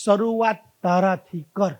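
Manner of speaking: slow, low શરૂઆત તારાથી કર; calm advice. Retold or imitated. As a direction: gently hand over the lesson. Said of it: "વિદ્યારામ સ્વામી એક વાત કીધી". (સ્વામી યુવાનને શાંતિથી સલાહ આપે)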